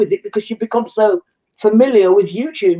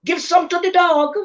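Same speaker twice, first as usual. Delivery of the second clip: Miss Lou; 7 semitones higher, slower than usual. Acted. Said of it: "You sound like Miss Louie".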